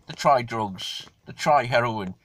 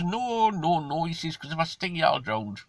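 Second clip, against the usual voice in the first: much higher, eager no no no; scorpion denying; 6 semitones higher than usual. Acted. Scorpion on the frog's back denying it, high and eager. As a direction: brush off his worry, pitched high.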